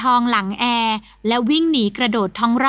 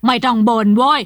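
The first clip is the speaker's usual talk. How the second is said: louder gruff snap; old master snapping at grumbling men; snapping bark; 4 dB louder than usual. Acted. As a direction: bark it to shut them up. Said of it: "ตวาดแหว".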